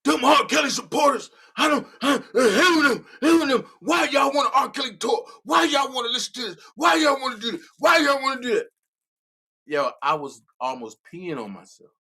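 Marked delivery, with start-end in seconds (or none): 0.0-8.7 imitating a rant. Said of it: "Larry was on one page going off".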